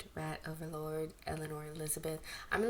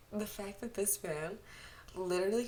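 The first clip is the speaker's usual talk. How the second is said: giggly whisper. Real, not acted. Reader still laughing.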